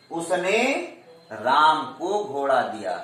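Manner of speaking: teacher's demo with the weight on उसने; stress on उसने. Shown as a demonstration. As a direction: lift उसने, pause, then finish the sentence plainly. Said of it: "पर बल का प्रयोग हो गया".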